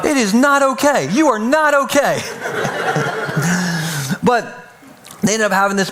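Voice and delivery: laughing disbelief. Retold or imitated. Retold reply to panicking friend.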